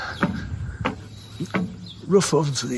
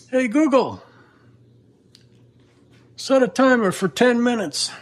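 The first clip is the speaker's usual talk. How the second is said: voice assistant command; 7 semitones higher than usual. Real, not acted. Commanding smart speaker.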